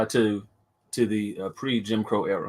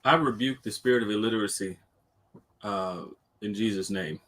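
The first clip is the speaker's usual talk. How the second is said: fierce commanding prayer; 2 semitones lower, 5 dB quieter than usual. Pretend. Mock preacher rebuking spirit.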